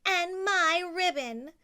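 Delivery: outraged snatching; indignant cry. Acted. Stepsister to Cinderella, loud outraged cry. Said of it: "cried the other".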